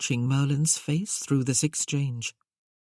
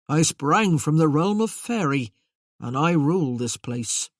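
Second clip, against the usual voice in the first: grand Merlin voice; 4 dB louder than usual. Acted.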